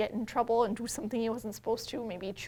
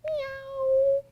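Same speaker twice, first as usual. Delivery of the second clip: much higher cat meow; 4 dB louder than usual. Shown as a demonstration. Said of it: "what does a cat say".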